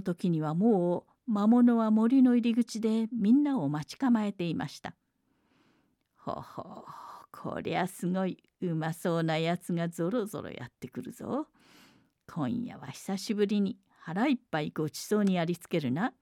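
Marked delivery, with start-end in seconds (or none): 6.2-16.1 gloating monster. Acted. Monster sees the girls coming.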